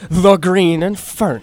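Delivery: slow, lightly dorky superhero title. Shown as a demonstration. Host demonstrating a silly superhero name, dorky voice. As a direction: put a bit of dork into the slow title read. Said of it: "you put a dorky voice on it".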